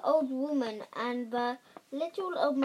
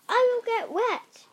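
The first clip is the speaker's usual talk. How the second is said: higher, alarmed little voice; worried cry; 9 semitones higher, 5 dB louder than usual. A narrator's reading. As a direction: cry out in fright. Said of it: "cried the gingerbread man".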